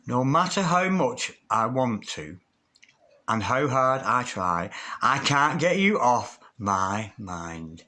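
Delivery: slow, tender reading of a message. Acted. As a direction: let each line linger, slowly. Reading card message slowly.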